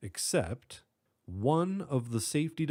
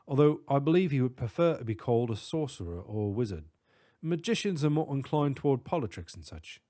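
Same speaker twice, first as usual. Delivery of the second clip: put-on British accent. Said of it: "distinct British accent".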